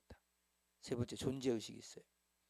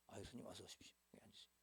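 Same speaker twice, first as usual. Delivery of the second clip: welcoming manager; 5 semitones lower, 16 dB quieter, faster than usual. Retold or imitated.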